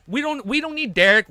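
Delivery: high-pitched, stumbling excitement; too excited. Real, not acted. Fan wanting Anderson on the crew, overexcited. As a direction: blurt it out, carried away. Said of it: "I'm getting a little too excited".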